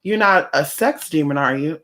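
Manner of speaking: high mock-innocent questioning; mocking a prying stranger. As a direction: imitate a nosy busybody fishing for gossip. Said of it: "Or they'll be like".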